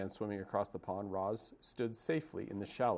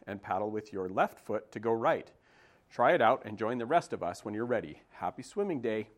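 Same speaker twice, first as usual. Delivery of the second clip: goose teacher. Acted. Goose giving the goslings a swimming lesson, instructing. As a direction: teach the chicks like a bossy old goose.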